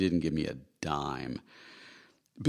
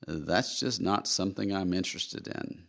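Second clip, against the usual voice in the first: put-on Southern accent; slower than usual. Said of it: "in that lovely Southern accent".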